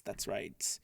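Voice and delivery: breathy aside, no voice; a soft whispered repeat; whispered echo. Pretend. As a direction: whisper it back playfully. Playful repeated reply.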